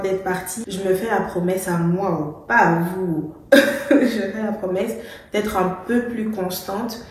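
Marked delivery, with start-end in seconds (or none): 2.2-4.9 petit rire gêné en se corrigeant; en riant. Real, not acted. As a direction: se reprend en riant doucement. Se reprend en riant. (rire amusé)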